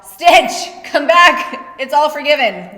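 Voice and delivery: high, drawn-out call that eases off; mock pleading yell. Corner yelling for their cutman Stitch to return, mock pleading yell. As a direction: yell after someone who walked out, then soften. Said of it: "they're gonna yell".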